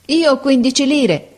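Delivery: high, loud, slow begging; pleading. A narrator's reading. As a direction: plead with him. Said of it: "rispose il ragazzo supplichevole". (supplichevole, acuto e lento)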